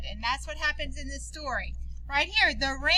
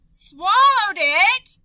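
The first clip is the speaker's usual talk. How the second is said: slow, loud alarmed cry, higher; 6 semitones higher, 11 dB louder, much slower than usual. Acted. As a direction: gasp it out in horror. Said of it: "Maria cried".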